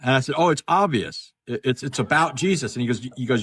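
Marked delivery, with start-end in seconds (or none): 0.4-2.7 sarcastic echo. Retold or imitated. Echoing the father-in-law's claim back, sarcastic. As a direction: throw his words back at him, mockingly.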